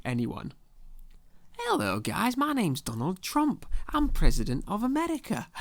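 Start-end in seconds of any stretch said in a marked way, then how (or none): 1.6-5.5 put-on vaguely northern accent, pitched up high; bad impression slipping into northern English; Donald Trump. Comedian introducing himself as the president, botched northern-accented impression. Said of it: "northern accent every time I do an impression".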